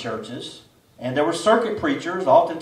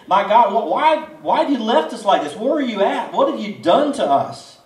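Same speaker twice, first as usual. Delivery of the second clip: higher, pleading complaint to God; raised, exasperated prayer of complaint; complaining prayer; 5 semitones higher, 4 dB louder than usual. Retold or imitated. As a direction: whine it up at heaven, exasperated. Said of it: "This was a prayer of complaint".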